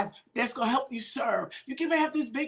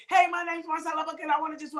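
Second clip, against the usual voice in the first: rattled-off self-introduction, slightly higher; talking too fast; 3 semitones higher, faster than usual. Retold or imitated. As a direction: rush through it, imitating yourself. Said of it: "You're talking too fast".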